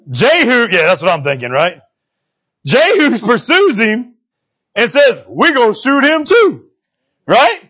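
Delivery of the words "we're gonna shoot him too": higher, drawn-out retold decree; slow, emphatic declaration. Preacher voices Jehu pursuing the fleeing king, slow and emphatic. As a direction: declare it slowly, word by word. Jehu's decree, dramatised in retelling.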